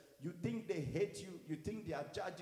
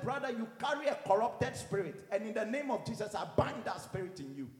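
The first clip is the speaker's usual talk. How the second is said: raised voice, binding a spirit; retold angry rebuke; 3 semitones higher, 6 dB louder than usual. Pastor to a brother in leadership meeting, retold angry rebuke. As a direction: rebuke him with retold anger. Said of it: "I got so angry".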